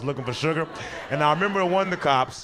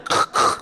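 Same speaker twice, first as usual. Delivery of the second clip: snorted laugh; 4 dB louder than usual. Shown as a demonstration. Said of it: "one of them laughs".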